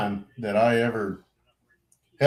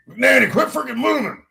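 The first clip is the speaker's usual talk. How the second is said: high-pitched mock bark at the ranks; exaggerated retold order; imitated sergeant's yell; 12 semitones higher, 4 dB louder than usual. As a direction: scold someone for moving, pitched way up. Sergeant snapping at fidgeting band member.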